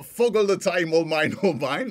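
lightly attempted Geordie accent; half-hearted Geordie lilt. Shown as a demonstration. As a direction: repeat the gag in a bad Geordie accent.

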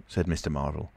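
ordinary delivery, nothing marked

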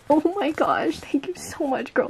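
real touched whisper; grateful whisper. Real, not acted. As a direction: whisper your thanks, touched. Thanking friend for gift.

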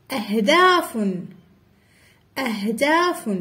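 أهداف with a distinct glottal a at the start; hamza pronounced. Shown as a demonstration. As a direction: open أهداف on a clear glottal stop. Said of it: "ضروري من أن ننطق الهمزة".

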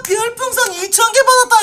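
triumphant yell of a gift; excited shout. Real, not acted. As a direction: crow about the donation at full volume. Brags about receiving 2,000 star balloons.

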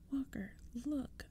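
soft, slow, hushed urgent whisper. A narrator's reading. Boy whispering to his friend during forced push-ups. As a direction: breathe it to your friend unseen. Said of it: "I whispered".

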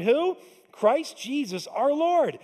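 high, loud, then slow and drawn out; preacher building to the name; call and response. Real, not acted. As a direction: pull the room into the answer. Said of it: "prompting congregation to finish".

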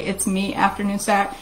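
"me" in place of "my", otherwise everyday voice; "my" changed to "me". Shown as a demonstration. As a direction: say "me" with a long ee where "my" belongs. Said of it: "you say".

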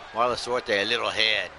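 lively ringside commentary, calling every move; wrestling play-by-play. Acted. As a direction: call the match like a hyped announcer.

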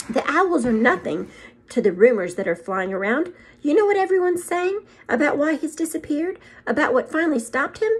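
a stern headmistress, put out; stern witch. Acted. McGonagall voice.

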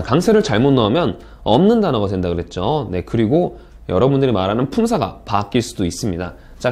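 ordinary talk, nothing marked

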